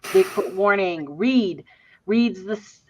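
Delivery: talking while chewing gum; words round a wad of gum. Real, not acted. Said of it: "I gotta take this gum out".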